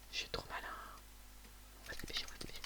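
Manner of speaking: murmure sans voix, tout bas; complice, en douce; chuchoté. Real, not acted. Chuchote en volant un coffre. (chuchotement de voleur)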